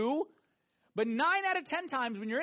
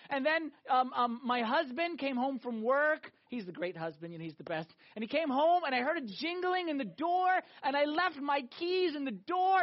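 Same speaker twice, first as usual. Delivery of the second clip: mock pious friend; 2 semitones higher than usual. Parodying the overly Christian friend.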